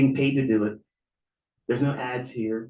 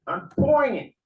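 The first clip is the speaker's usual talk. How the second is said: "pouring" cried out high and loud, voice cracking; real tears breaking through the words; voice breaking into a cry; 10 semitones higher, 5 dB louder than usual. Real, not acted. Pouring his heart out to his viewers, voice breaking.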